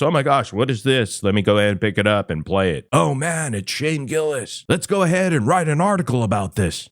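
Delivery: lightly hammed-up fake innocence, quick and lifted; mock amazement, rattled off fast; mock surprised discovery. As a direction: play a gossip reporter pretending to stumble on a scoop. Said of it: "you're just walking T M Z and stumble upon these clips".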